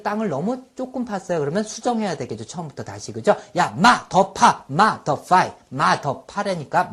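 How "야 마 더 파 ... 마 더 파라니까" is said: bossy order. Acted. Acted order to dig more.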